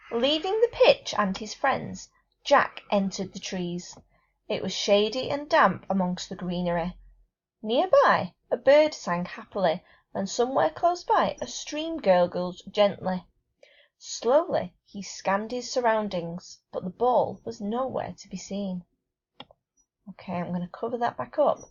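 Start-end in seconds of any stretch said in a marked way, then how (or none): 0.1-13.3 gentle storytelling read; story reading. Acted. Reads setting description aloud. 14.0-14.7 whispered, drawn-out slowly; hushed storytelling whisper; whispered word. Acted. Reads setting description aloud. 14.9-18.8 gentle storytelling read; story reading. Acted. Reads setting description aloud.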